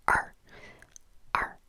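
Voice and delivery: "R" as Mandarin èr, the "er" sound from the back of the throat; Chinese er. Shown as a demonstration. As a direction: whisper "R" as a throaty "er". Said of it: "It comes back from the throat".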